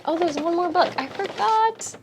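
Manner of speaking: high, loud "oh, I forgot"; surprised by a forgotten item; sudden remembering. Real, not acted. Suddenly remembers one more.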